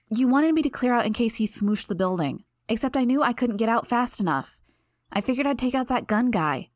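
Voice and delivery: put-on indignant kid sister justifying herself; Imp, defensive.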